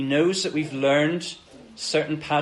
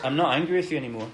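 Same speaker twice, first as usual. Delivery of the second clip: gentle reassurance; much faster than usual. Retold or imitated. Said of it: "the Lord says".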